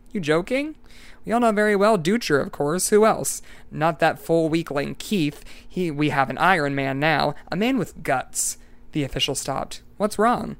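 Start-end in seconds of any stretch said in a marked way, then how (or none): 0.1-8.6 mock his silly question; the desk man sneering, lightly voiced; scoffing official. Desk man laughing at Eccles. 10.0-10.6 higher, sudden worry; a hint of alarmed official; concerned surprise. Official notices Eccles' state.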